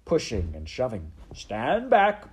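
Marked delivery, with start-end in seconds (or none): 1.3-2.3 high, loud, gleeful command; Botticelli. Acted. Rat holds back the crowd, gleeful command. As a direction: order them back with swooping relish. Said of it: "still laughing".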